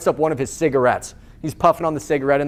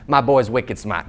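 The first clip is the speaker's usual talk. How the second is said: put-on low, light Boston accent; 6 semitones lower than usual. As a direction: imitate a Boston buddy, pitched down. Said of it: "what his friend says in his Boston accent".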